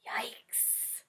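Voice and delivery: whispered yikes; a hushed alarmed whisper. Real, not acted. Reader seeing the food fight, whispered alarm.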